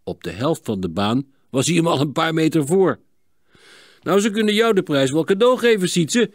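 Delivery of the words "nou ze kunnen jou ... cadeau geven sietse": high, quick exclamation; calling out. A narrator's reading. Gerben to Sietse after an easy win, calling out. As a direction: call out teasingly to a lucky friend. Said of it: "riep Gerben".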